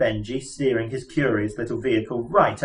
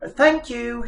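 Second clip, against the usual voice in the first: shouted; 12 semitones higher than usual. Acted. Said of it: "shouted Arthur".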